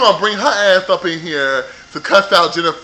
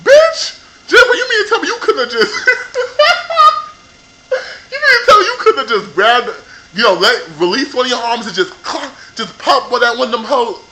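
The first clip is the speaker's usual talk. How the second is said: much higher, louder disbelief breaking into laughter; incredulous outburst; 6 semitones higher, 4 dB louder than usual. Retold or imitated. Viewer shrieking at Jennifer for not hitting back, laughing in disbelief. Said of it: "I'm like".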